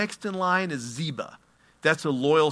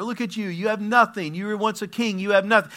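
taunting Shimei; 6 semitones higher than usual. Acted. Shimei taunting David, acted.

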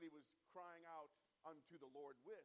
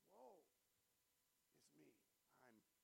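much softer, fading to a hush on ruined; quiet despair; 14 dB quieter than usual. Shown as a demonstration. Preacher voicing the desperate heart to himself, hushed. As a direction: say it to yourself, undone. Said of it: "a cry of a desperate heart".

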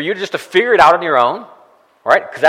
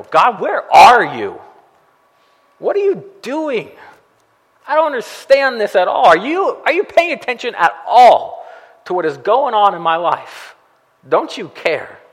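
higher, pleading accusation thrown upward; accusatory cry to God; 4 semitones higher than usual. Retold or imitated. Believer accusing God in hardship, higher and exasperated. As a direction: throw up your hands and demand answers from God. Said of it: "in an accusatory way".

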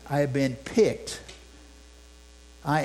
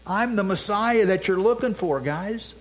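proud shout; 5 semitones higher than usual. Pretend. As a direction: proclaim it out to the crowd. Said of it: "That shouting".

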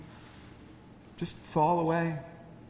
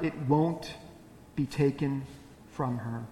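gentle invitation. Retold or imitated. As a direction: call her back kindly, without blame. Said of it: "I don't hear an ounce of shame".

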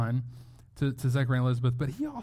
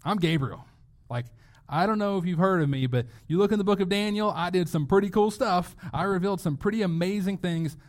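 boasting Gabriel; 2 semitones higher than usual. Retold or imitated. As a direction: drop your name like a big shot. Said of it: "Gabriel name drops here".

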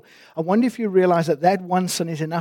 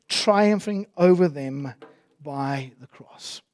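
scripture reading. Acted. Reads scripture passage aloud.

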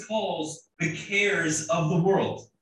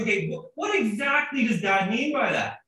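put-on sly kid; 3 semitones higher than usual. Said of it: "coy smile, gears in his head turning".

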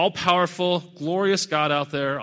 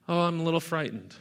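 mock mild fright; 5 dB quieter, faster than usual. Shown as a demonstration. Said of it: "this word is not like".

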